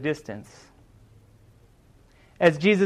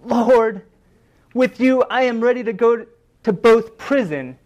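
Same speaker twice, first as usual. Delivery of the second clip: crying out a vow; 2 semitones higher, 4 dB louder than usual. Retold or imitated. Peter vowing to Jesus, crying out boldly. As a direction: proclaim it boldly, voice lifted. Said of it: "cried out".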